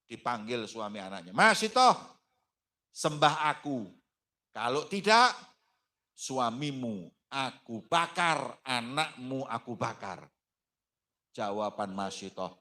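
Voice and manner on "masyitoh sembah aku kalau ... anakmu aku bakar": loud high threat that slows and sinks; threatening tyrant. Acted. Pharaoh threatening to burn Masyitoh's husband and child, menacing. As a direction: roar the demand, then drag out the threat.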